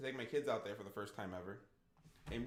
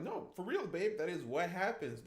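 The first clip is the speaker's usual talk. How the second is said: higher-pitched insistent dad; earnest insistence; 4 semitones higher than usual. Retold or imitated. Dad insisting to his doubting daughter, higher and earnest. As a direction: plead it as the honest truth, pitched up.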